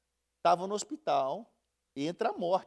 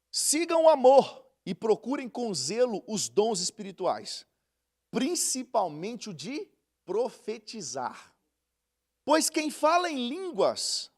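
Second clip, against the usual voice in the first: slow, solemn Bible reading; deliberate preacher's reading voice; scripture reading; 3 semitones higher, slower than usual. Acted. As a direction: read each word out to the church. Reads scripture slowly.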